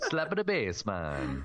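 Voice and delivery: put-on Minnesotan accent. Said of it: "a Minnesotan accent".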